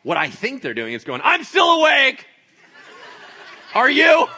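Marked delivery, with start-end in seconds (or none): 1.2-4.3 very high, loud rooster announcement; comic squawked wake-up call; crowing rooster shout. Pretend. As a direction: holler it like a rooster sounding off. Voices roosters sounding off.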